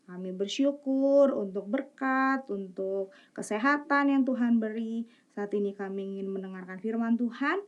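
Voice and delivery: soft, gentle spoken prayer. Real, not acted. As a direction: pray quietly and earnestly. Children's prayer led aloud.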